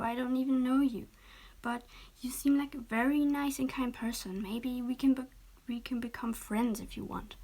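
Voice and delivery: gentle, kind letdown, mostly whispered; very nice voice. Acted. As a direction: soften it to let him down kindly. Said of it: "she said with a very nice voice".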